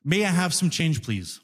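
mock-polite subway customer; very politely. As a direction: ask nicely, almost timid. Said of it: "Very politely".

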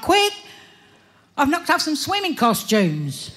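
high urgent yelp of alarm; sudden high panicked call; urgent cry. Acted. Rushing out after knocking racks.

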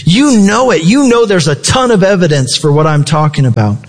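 emphatic, assured appeal; retold confidence. Paul looking Agrippa in the eye, confidently insistent. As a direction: press the point with conviction, as if quoting. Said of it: "he says with all confidence".

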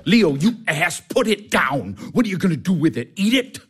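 exasperated, sarcastic rebuke; angry scolding. Acted. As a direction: scold the foolish nephew. Uncle scolds nephew over box.

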